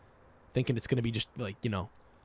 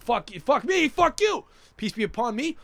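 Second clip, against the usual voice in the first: mock competitive greeting; 7 semitones higher than usual. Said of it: "It's like".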